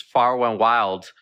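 slow "far and wild" with the R softened toward a W; speech-impediment "far and wild"; R's said as W's. Shown as a demonstration. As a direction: say "far" with a childlike W for the R. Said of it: "I started to say W's".

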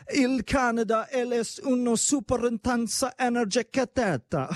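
high, hammed-up fake Italian accent; mock Italian. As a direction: butcher the Italian on purpose in a high put-on voice. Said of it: "Butchering Italian right now".

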